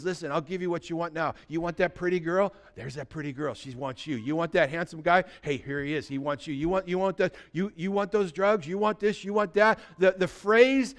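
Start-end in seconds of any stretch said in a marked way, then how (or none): 0.0-9.8 soft, sly tempter; tempting Satan. Retold or imitated. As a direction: coax them like the devil offering treats. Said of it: "He says".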